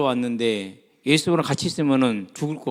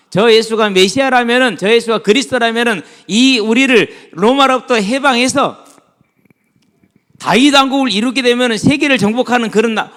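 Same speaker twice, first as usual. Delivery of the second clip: loud, high scheming aloud, hammed up; swelling excitement in an acted inner monologue; ambitious disciple; 8 semitones higher, 7 dB louder than usual. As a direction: preach out the follower's grand dream. Voices disciples' ambitious thoughts, preaching.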